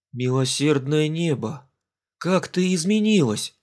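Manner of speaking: slow, amazed exclamation; surprised exclamation. Acted. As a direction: marvel slowly at how she changed. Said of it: "удивлённо воскликнул он". (удивлённо, медленно восклицая)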